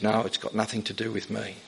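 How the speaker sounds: imitating a calm, unconfrontational reply; calm and gentle. Evangelist answering an interviewer's accusation of arrogance, calm and gentle. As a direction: quietly own up to it, gently. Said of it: "He said it very calmly".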